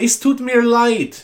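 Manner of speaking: put-on German accent.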